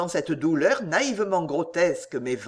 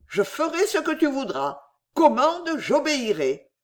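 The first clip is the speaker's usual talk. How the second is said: avec fermeté; 9 semitones higher than usual. A narrator's reading. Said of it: "assura Poisson avec fermeté".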